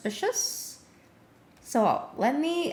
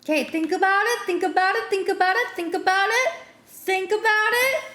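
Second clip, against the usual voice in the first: excited; 4 semitones higher, 3 dB louder, faster than usual. Real, not acted. Hyping himself up, repeated chant.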